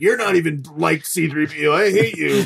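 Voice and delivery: petulant rejection. Acted. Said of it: "and was like".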